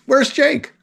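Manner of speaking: a high, puzzled mock secretary voice; secretary asking the group, mock high and puzzled; imitating the secretary. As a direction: lightly voice her clueless question. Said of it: "she goes".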